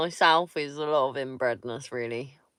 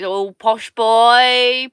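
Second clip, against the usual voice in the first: mock teasing; 4 semitones higher, 11 dB louder, much slower than usual. Teasing a West Sussex man.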